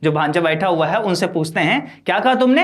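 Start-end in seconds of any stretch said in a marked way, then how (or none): 2.1-2.6 raised, louder retold question; a bit louder. Uncle speaking up to his nephew so the next room hears, mildly loud. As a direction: lift the voice to be overheard. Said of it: "थोड़ा जोर से".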